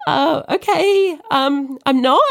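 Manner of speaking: nervous laugh. Retold or imitated. Answering the aunt who doubts her, nervous laughing. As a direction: laugh awkwardly while denying it.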